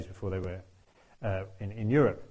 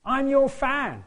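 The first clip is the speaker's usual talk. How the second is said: high, raised-voice call across a gig; 14 semitones higher, 5 dB louder, much slower than usual. Retold or imitated. Band leader to the tuba player during the gig, high calling out. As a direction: imitate an excited shout from the crowd. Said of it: "He calls out to me and says".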